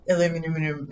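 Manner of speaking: aluminum with a doubled "minum" ending; imitated joke pronunciation. Streamer imitating a video speaker, aluminum with its ending repeated. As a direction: trip extra syllables onto the end of aluminum. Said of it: "saying it like that".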